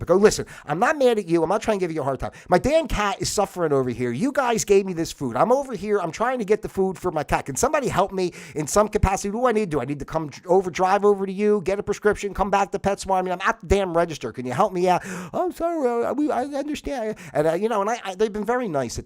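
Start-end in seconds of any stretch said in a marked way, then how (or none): 0.2-15.0 raised, pressing plea to the vet office; getting worked up, pushing them for help. Retold or imitated. Frustrated cat owner begging the vet office on the phone, worked up and pleading. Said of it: "then I start getting worked up". 15.3-17.2 mock receptionist. Vet receptionist voiced after rant.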